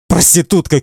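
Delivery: high-pitched narrated insult; shouting. A narrator's reading. Man hurls an insult at girl, shouting high. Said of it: "кричит Эдди".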